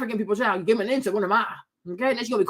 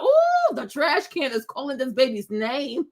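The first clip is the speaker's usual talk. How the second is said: mock spooky tease. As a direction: tease the baby in a spooky hush. Joking about crying baby.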